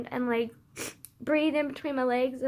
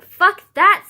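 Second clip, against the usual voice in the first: high, loud mocking anxiety voice; anxiety's voice; 8 semitones higher, 16 dB louder than usual. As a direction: shriek it like your anxiety bossing you.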